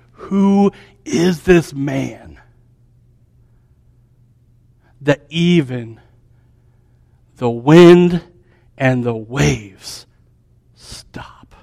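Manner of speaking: slow, hushed wonder, fading to a whisper; awed disciples. Retold or imitated. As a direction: marvel under your breath. Awed disciples after the calm.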